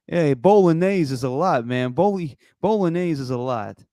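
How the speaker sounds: mimicking a New York Italian video guy; lightly hammed-up Italian-American accent. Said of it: "who the fuck is that guy in the video".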